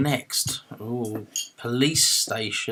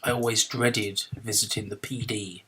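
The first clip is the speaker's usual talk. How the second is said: put-on American accent, a confused cowboy from nowhere in particular. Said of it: "You sound like a very confused cowboy".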